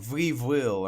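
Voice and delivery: "We will" said with V's in place of W's, like "Ve vill"; V sound for W. Shown as a demonstration. Reviewer mocking the manga spelling, "We will" with V for W. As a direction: hit "We will" with a mock Eastern European V. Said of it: "There's no V's for the W's".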